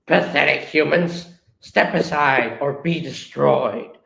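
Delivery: a hint of a menacing villain; lightly voiced villain threat, slowing at the end; mildly hammed-up menace; Starscream. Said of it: "Then Starscream goes".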